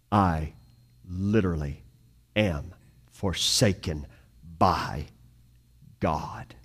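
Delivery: dropping to a low, near-whispered confession; hushed despair. Retold or imitated. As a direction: let the words sink to a breath at the end. Jesus's cry of being forsaken.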